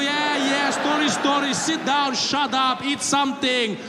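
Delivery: put-on high accented brush-off; mock Arab passenger fed up with excuses; dismissive scolding. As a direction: shoo him down impatiently, pitch easing as you go.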